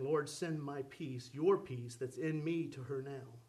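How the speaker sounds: low, slow, earnest plea; low-pitched, unhurried private prayer; inward prayer. Retold or imitated. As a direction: pray slowly from the heart. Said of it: "down in my heart, I'm saying".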